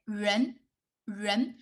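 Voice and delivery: 人 with the tongue curled back; teacher modelling 人 for repetition; tongue rolled back. Shown as a demonstration. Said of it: "you just rolling your tongue back".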